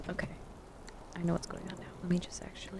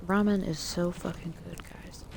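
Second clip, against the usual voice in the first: chewing while talking. Real, not acted. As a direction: mouth full of ramen. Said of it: "I apologize for my chewing".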